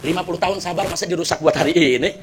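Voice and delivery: soft, low, rueful self-reproach; sad, regretful. Acted. Husband regrets throwing his wife down the well, sorrowful. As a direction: sink into hushed remorse. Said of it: "akhirnya hatinya sedih".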